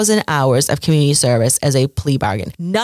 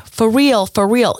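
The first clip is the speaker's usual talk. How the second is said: mock panic; 6 semitones higher than usual. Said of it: "responding in a panicked voice".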